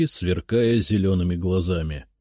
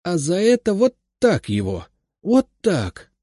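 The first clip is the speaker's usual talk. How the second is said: high, loud mock-scolding old woman; grandmother scolding; 10 semitones higher, 5 dB louder than usual. A narrator's reading. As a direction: pretend punishment for grandfather's sake. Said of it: "приговаривая".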